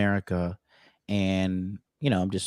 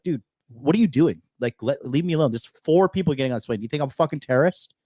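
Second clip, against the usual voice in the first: retold exasperation; 5 semitones higher, 3 dB louder than usual. Retold confrontation with armed guards.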